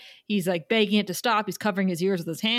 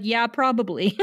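laughing resignation. Retold or imitated. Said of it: "But I'm like".

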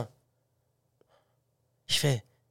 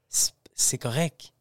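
slow, low near-whisper; hushed resigned reply; 5 semitones lower, 7 dB quieter, slower than usual. Retold or imitated. Answering his girlfriend's no, hushed and resigned. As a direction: let it out slowly under the breath.

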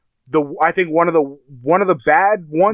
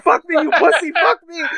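retold screaming; 12 semitones higher than usual. Daughter taunting the man attacking her, mock screaming. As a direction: imitate a screamed taunt in a raised pitch. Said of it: "Starts screaming at him".

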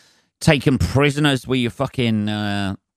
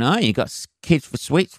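mock accusing geezer; 5 semitones higher than usual. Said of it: "on my doorstep going".

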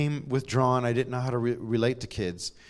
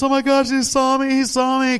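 put-on much higher, louder, retelling a frightened child's scream; panicked childish shriek; 12 semitones higher, 7 dB louder than usual. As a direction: relive the horror of being seen as a kid. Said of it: "I screamed and cried".

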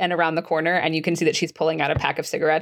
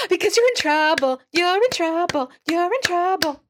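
excited blurt; 11 semitones higher than usual. Acted. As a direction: burst out unable to hold it in. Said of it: "Esther just can't get a hold of herself".

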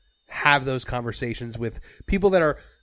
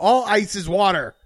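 exasperated insistence; 7 semitones higher, 6 dB louder than usual. Retold or imitated.

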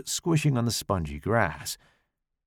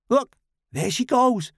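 eager; 12 semitones higher, 3 dB louder than usual. Acted. Tommy eager.

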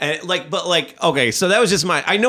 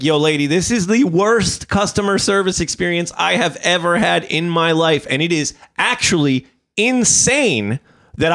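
retold indignant rant, raised a little; worked-up complaint, pitched up in outrage; furious; 4 semitones higher than usual. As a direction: lay into the customer service agent. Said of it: "So I'm furious, and I'm just like".

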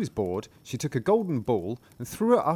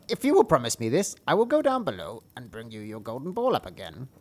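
frog voice. Acted.

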